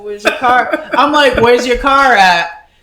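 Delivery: high, loud, laughing question; laughing retelling. Real, not acted. Telling friends about the old man's car, laughing through it. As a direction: crack up while asking it.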